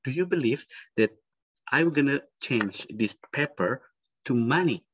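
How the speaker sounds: lightly voiced magician addressing the crowd; magician patter. Shown as a demonstration. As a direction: build suspense for the trick.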